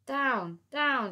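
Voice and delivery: high, loud shouts. Acted. Girl shouting to her friends on the bridge, loud shout. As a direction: yell down to friends. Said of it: "shouted the girl".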